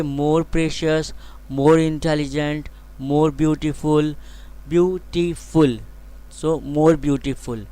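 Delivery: slow, deliberate dictation of each phrase; slow example phrases. Shown as a demonstration. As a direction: spell it out slowly for the class.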